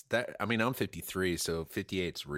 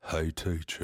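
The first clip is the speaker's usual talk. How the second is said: Forrest Gump voice; 4 semitones lower than usual. Pretend. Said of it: "started doing Forrest Gump".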